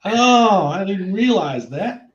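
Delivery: hammed-up surprise at the accent; mock surprised Americans. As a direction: play the amazed locals. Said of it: "They all thought".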